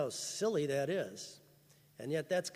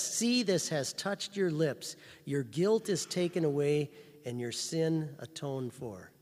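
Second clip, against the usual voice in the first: louder, slow, weighty declaration; loud slow proclamation; 4 dB louder than usual. Retold or imitated. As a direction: proclaim it to the whole church. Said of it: "And then he says".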